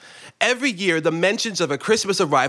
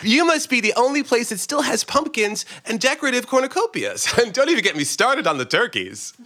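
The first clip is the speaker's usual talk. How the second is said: chuckling; 10 semitones higher than usual. Acted. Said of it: "I'm chuckling at the absurdity".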